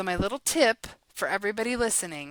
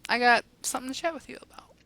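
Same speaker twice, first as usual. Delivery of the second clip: calm opener; 4 semitones higher, faster than usual. Retold or imitated. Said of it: "go calmly and be like".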